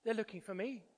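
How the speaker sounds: soft child's confession, a hint of mischief; lightly acted sneaky child; muffled giggle, mock. A narrator's reading. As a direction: say it quietly as a naughty child. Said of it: "There's a muffled giggle".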